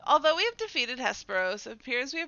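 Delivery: formal delivery, firm start then easing; dramatic dialogue reading. Acted. Character sums up the battle's aftermath, formal dramatic reading. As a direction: read it as grave game dialogue.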